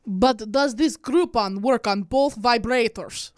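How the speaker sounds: Russian accent. Shown as a demonstration. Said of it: "Your last one is Russian".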